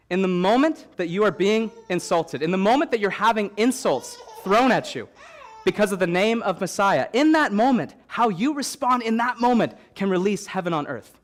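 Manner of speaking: emphatic building sermon; preacher rising in intensity; preaching. Acted. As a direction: press each phrase to the crowd.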